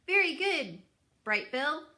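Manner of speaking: put-on old goose Loudwing, loud and eager; bossy old goose. A narrator's reading. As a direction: tell Roz she simply must come. Loudwing praises swimming gosling.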